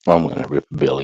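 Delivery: stoned rambling; lazy stoned talk; stoner. Real, not acted. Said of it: "Sorry, I'm stoned".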